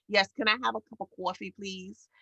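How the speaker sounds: quick New York coffee order; New York accent. Retold or imitated. New Yorker ordering at a Southern drive-through, in New York accent. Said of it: "Be more New York".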